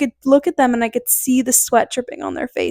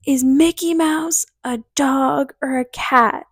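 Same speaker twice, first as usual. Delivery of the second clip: slow, drawn-out imitation of a yell; mock scream; slower than usual. Friend's dad questioning her as she comes to, mock scream. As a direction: stretch it out as a held-back mock holler. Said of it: "and he screams".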